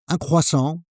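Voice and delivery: curt order with no greeting; just blurt the order, no bonjour; cold, bare order. Shown as a demonstration. Learner blurting an order to the baker, curt and cold. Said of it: "The wrong way is to say".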